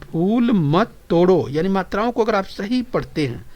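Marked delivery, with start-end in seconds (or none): 0.0-1.5 slow, split after के; slow, careful reading for the class. Shown as a demonstration. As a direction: read each word with care. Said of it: "वाचन बराबर करते हैं".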